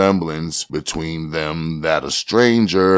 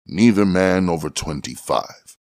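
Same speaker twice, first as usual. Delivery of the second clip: ordinary delivery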